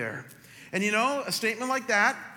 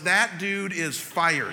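mock indignation; 2 semitones higher, 6 dB louder, much slower than usual. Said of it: "my very first thought was".

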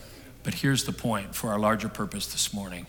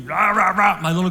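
mock coach cheer; 8 semitones higher, 8 dB louder than usual.

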